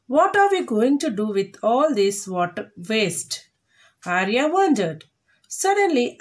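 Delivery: careful, measured textbook story reading; read-aloud to a class. A narrator's reading. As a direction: read the story out clearly, phrase by phrase. Teacher reads lesson text aloud.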